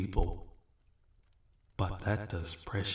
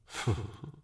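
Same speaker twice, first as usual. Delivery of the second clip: quick breath of a demon's laugh; short knowing chuckle. Acted. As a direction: let out a small dismissive chuckle. Demon amused by the summoner's objection.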